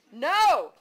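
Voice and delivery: put-on a loud child's wail of no. A narrator's reading. Kids refusing their mother, loud wail. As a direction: wail it out like a cranky kid. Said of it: "they wailed".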